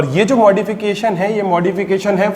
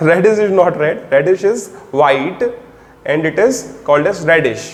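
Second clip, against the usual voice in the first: slow, deliberate note-taking pace; slow dictation; much slower than usual. Shown as a demonstration. Teacher dictating a line for students to copy, slowly. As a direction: read it out so they can write it down.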